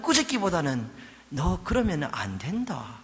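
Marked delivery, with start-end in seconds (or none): 1.3-3.0 tender, unhurried scolding; gentle rebuke. Acted. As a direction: correct a child lovingly. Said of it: "아주 부드러운 타이르심으로".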